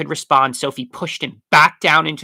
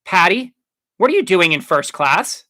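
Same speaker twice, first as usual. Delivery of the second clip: loud, high astonished question; startled and indignant; blurted; 6 semitones higher, 6 dB louder than usual. A narrator's reading. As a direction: blurt it out in shock at who you've found. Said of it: "Juliana blurted".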